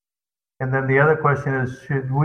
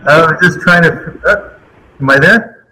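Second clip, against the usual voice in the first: tinny speakerphone sound; talking over a bad speakerphone; phone speaker; 3 semitones higher, 7 dB louder than usual. Real, not acted. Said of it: "that sound is really bad".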